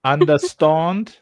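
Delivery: slow South African understand; South African accent. Shown as a demonstration. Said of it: "repeat after me".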